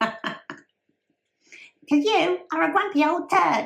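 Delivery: squeaky little voice, very high. Talking to Dad, imitating how she sounds, in a squeaky voice. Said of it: "That's what she sounds like".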